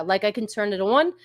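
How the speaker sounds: rounded New York vowels on "on" and "off"; lightly put-on New York accent. Shown as a demonstration. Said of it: "talk like a New Yorker".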